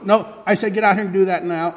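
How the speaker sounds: high, loud final refusal; angry mother. Acted. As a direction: shut it down flatly.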